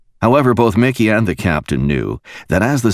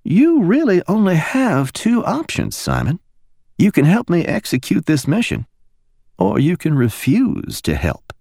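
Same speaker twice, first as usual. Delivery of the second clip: high, calm ultimatum; Mickey quietly gives Simon an ultimatum; 12 semitones higher than usual. A narrator's reading. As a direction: lay out the choice softly. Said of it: "Her quiet words".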